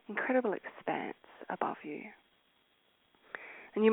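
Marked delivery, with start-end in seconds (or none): 0.1-2.0 breathy meditative whisper. Acted. Guide whispering to meditating listeners, hushed. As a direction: let the words dissolve into a whisper.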